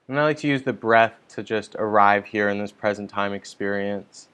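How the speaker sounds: calm, measured meditation guidance with long pauses; unhurried meditation leader, leaving space between instructions; guided meditation. Real, not acted. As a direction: guide listeners gently into settling, phrase by phrase.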